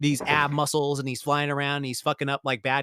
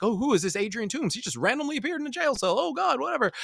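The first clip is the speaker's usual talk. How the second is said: dismissive guard; 7 semitones higher than usual. Retold or imitated.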